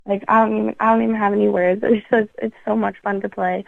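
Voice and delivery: speaking through a smile and a laugh; happy, smiling delivery. Real, not acted. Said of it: "I can just hear the smile in your voice".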